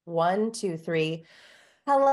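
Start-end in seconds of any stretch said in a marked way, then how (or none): 1.8-2.1 high hello, held on a full breath; top of the breath. Shown as a demonstration. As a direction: demonstrate the highest end of the range. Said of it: "say hello at the top of your breath".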